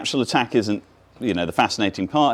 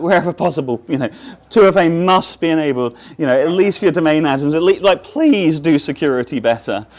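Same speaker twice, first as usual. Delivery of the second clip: mock pleading attacker, slightly higher; 5 semitones higher, 4 dB louder than usual. Shown as a demonstration. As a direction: plead like a begging hacker. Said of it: "a pleading voice".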